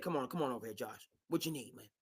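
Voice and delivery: soft, hushed sweet-talking owner; coaxing Bob Kraft. Retold or imitated. Bob Kraft luring Josh McDaniels back, soft hushed coaxing. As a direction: sweet-talk him into staying. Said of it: "Bob Kraft said".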